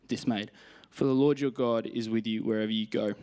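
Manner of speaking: measured, earnest Bible reading; scripture reading. Acted. Preacher reading Isaiah and Joshua to the congregation, earnest reading. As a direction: read each verse with weight and conviction. Reads Bible verses aloud.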